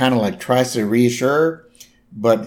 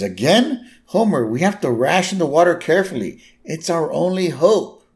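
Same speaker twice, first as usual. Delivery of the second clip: Flanders pleading; 6 semitones higher than usual. Retold or imitated. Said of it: "And Flanders".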